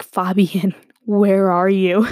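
laughing, drawn-out call to a friend; giggling while calling for Fabian; laughing plea. Retold or imitated. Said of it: "I'm like".

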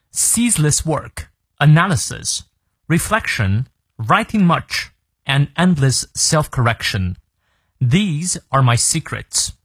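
slow, measured English reading; slow model reading. Shown as a demonstration. Teacher reads the quote to learners, slow and measured. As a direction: read it out slowly, phrase by phrase.

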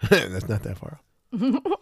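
drawn-out laughing repeat. Shown as a demonstration.

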